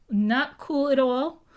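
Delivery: building indignation. Retold or imitated. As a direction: lean hard into the protest, slowing down. English angry at the killing.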